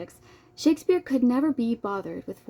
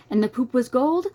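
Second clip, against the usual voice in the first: questioning draft; 5 semitones higher, 5 dB louder than usual. Pretend. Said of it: "said to himself".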